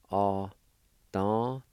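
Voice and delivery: "Opportunity" slow, in separated syllables; sounded out. Shown as a demonstration. Teacher showing how gift is pronounced, sounded out. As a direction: break "Opportunity" into drawn-out syllables with gaps. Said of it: "is pronounced like this".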